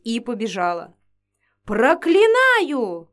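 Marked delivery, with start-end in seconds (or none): 1.6-3.1 very slow, loud, high cursing cry; terrible shout. Acted. Vampiress curses the fleeing girl, terrible shout. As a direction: drag the curse out menacingly. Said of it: "кричала вампиресса страшным голосом".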